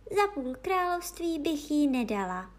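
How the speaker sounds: high princess declaration; little princess. Acted. Princess values her cat, high little voice.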